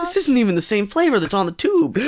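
giggling through the words; stifling giggles; giggly. Real, not acted. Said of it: "why are you giggling?".

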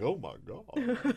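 slow, breathy shocked gasp of a sheltered innocent; Pollyanna gasp. Retold or imitated. Cohost mocks naive shock at politics, slow pearl-clutching gasp. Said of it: "too Pollyanna about it".

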